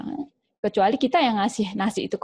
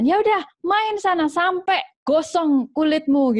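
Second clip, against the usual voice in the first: much higher, fed-up daring mom; challenging mother; 7 semitones higher than usual. Acted. Mother daring her nagging child to eat all the candy, fed-up. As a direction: dare the kid to eat it all. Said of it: "ibunya nantang sekalian".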